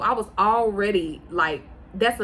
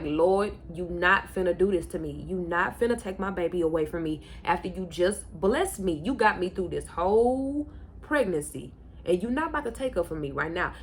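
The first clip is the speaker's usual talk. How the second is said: tearful prayer. Retold or imitated. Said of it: "I'm literally crying my eyes out".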